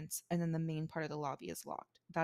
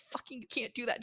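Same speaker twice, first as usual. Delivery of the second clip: higher-pitched, fed-up retort; exasperated; 5 semitones higher than usual. Retold or imitated. Clerk retelling a clash with an angry guest, exasperated. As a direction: lose patience with an argumentative guest. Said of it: "they'll get angry at me, and I'm like".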